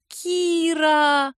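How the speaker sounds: long, high, drawn-out admiring Kira; admiring drawn-out call. A narrator's reading. Girl calling Kira in admiration, drawn out. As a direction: stretch the name out in delight. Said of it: "восхищённо протянула Лялька".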